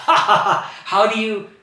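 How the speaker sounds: loud scornful laugh breaking into the question; mocking laughter. A narrator's reading. King Bali laughs at the boy's small request. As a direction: laugh him off as a tiny beggar. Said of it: "he begins to laugh".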